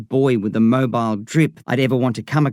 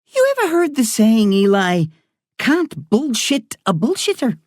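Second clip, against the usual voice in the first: put-on Irish woman doctor talking to a boy patient; 10 semitones higher than usual. A narrator's reading. Doctor voiced in story.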